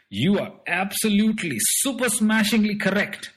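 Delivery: high, loud proud boasting about cricket; boastful alien. Acted. Strange man boasts to boy about cricket, high proud voice. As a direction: crow about the home planet. Mister Trick Them All boasts.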